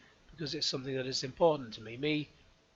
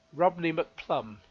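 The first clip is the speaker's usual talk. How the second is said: slow and deliberate; much slower than usual. Shown as a demonstration. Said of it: "Rodney McPlum, spelled out slowly".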